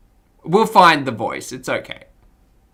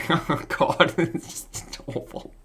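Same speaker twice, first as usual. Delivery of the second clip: ordinary talk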